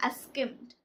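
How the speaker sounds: breathy whisper of I skimmed; whispered repeat. Shown as a demonstration. Teacher whispering the example to the class. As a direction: drop to a near-silent whisper.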